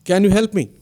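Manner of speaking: calling down for help, half-hearted shout; mild storyteller's shout. Acted. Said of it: "He lowers the balloon further and shouts".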